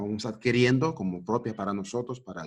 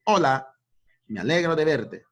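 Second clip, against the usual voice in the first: cheerful greeting demo; 5 semitones higher, 5 dB louder than usual. Shown as a demonstration. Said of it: "entonces dice".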